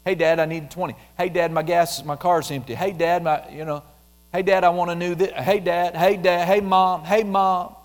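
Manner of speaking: put-on whiny kid asking again and again for stuff; pestering child. Child pestering parent for things.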